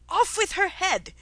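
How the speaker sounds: high, loud royal command; top-of-voice shout. A narrator's reading. Queen ordering Alice's execution, shouting at the top of her voice. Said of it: "shouted at the top of her voice".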